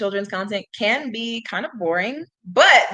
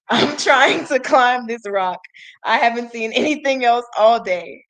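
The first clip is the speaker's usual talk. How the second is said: a touch of struggle, pushing the words out louder; mildly strained turtle; 3 semitones higher, 5 dB louder than usual. Acted. Turtle tells the bear about climbing, mildly strained.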